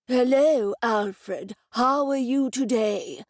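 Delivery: loud greeting to a deaf man; greeting the old man, loud and clear; yelling. A narrator's reading. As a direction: call it out loudly so he hears. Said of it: "he was yelling".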